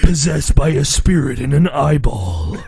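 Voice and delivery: lightly put-on villain voice; evil possessed kid. Friend voicing the possessed rival, mock grave. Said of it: "happens to be the, like, evil".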